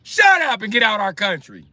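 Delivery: high, indignant mock-Italian outburst; Italian accent. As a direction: snap back as a hammed-up Italian. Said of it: "The Italian accent".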